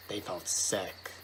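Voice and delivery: slow, soft and sickly; hushed creeping horror. A narrator's reading. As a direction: let it drop low and slow. Hushed ominous narration.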